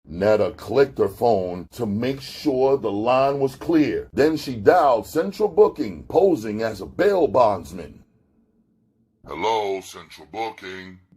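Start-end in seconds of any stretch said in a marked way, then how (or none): 9.3-11.0 deep husky desk sergeant voice, lower and quieter. Reading a story, voicing a desk sergeant answering the phone: deep, husky voice. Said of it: "the deep, husky voice of the desk sergeant".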